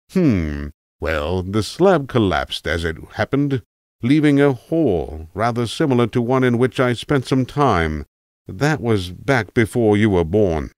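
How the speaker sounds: a hint of a rambling old tramp, musing; an old vagrant drifting into memory, lightly done; a lightly voiced tramp reminiscing to a young listener.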